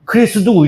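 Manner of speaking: 크리스두 ending in du in place of 토스; Chinese pronunciation. Shown as a demonstration. Teacher repeating Chinese reading for class, 크리스두 ending in du. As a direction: sound out 크리스두 with a final 두. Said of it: "이렇게 읽어요".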